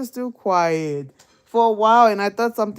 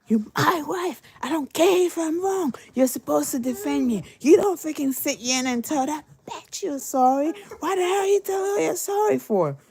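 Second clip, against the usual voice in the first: mock angry husband; 6 semitones higher than usual. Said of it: "He goes".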